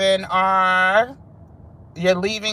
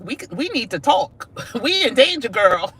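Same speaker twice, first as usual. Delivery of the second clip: lightly voiced worried girlfriends, higher with a laugh; playful mock alarm, pitched up, breaking into laughter; countries gossiping; 5 semitones higher than usual. Acted quote of two countries, laughing.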